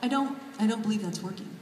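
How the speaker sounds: lightly voiced Spock, dry and even; a hint of deadpan Spock logic, a bit quick; mild Spock take on the editor; Spock impression. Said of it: "my David Levithan as Spock impression".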